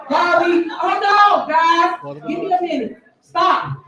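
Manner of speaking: official cutting off the board in distress; flustered protest. Real, not acted. Flustered official begging trustees to stop, pleading.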